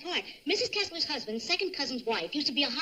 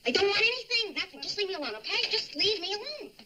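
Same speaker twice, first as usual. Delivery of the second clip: upset outburst; 6 semitones higher than usual. Acted. Brenda breaks down, wants solitude.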